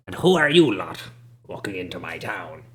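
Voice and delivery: put-on old man questions the travelers entering his town; suspicious old man.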